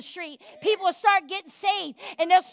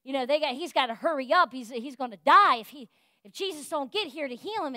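Mary and Martha pleading; 2 semitones lower than usual. Retold or imitated. Sisters begging for Jesus to come, mild anxious pleading. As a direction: hurry Jesus along, mildly worried. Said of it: "they kept saying".

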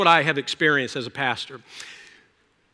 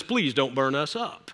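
a soft, lower, pleading beg for mercy; quiet begging plea; 5 semitones lower, 7 dB quieter than usual. Retold or imitated. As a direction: beg quietly not to be burned. Captain falls on his face begging.

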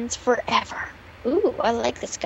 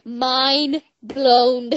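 louder mind blown. Shown as a demonstration. To a friend who missed it, louder. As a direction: say "Mind blown" again, louder, so she hears. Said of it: "Did you hear me?".

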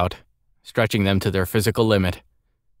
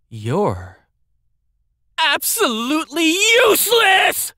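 very high, furious scream; violent angry outburst; slower than usual. A narrator's reading. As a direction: explode at him in one blast. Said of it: "anger finally burst forth in one violent blast".

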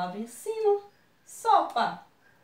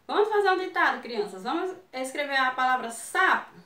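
lightly acted dictation announcement; teacher giving dictation; 2 semitones higher, 3 dB louder than usual. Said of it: "se a tia dissesse assim". (professora anunciando um ditado)

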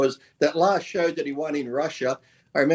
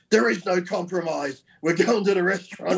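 stern Russian official; 4 semitones higher than usual. Retold or imitated. Quoting a big Russian official.

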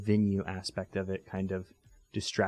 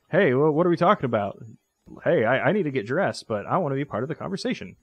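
voiced guard; 4 semitones higher, 4 dB louder than usual.

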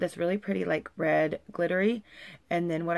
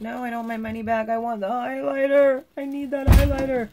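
higher and louder, building to a playful near-shout; hammed-up insistence; 7 semitones higher, 8 dB louder than usual. Retelling how she told the seller she wants the highlighter, mock pleading that builds louder. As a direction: insist you need it, getting louder each phrase. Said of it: "And I was like".

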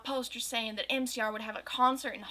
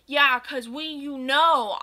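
louder, mocking his words back; angry yell; 3 semitones higher, 7 dB louder, slower than usual. Goth girl mocking Draco's excuse, angry yell. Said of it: "I yelled in an angry voice".

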